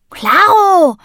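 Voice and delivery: loud, high "Klaro"; cheerful called-out yes; calling out. A narrator's reading. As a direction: shout it out eagerly. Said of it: "rief Sammy".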